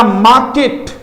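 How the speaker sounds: मार्केट as maakeṭ, no r; market without r. Shown as a demonstration. Teacher demonstrating the correct मार्केट. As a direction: drop the r in मार्केट. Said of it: "मार्केट नहीं होगा".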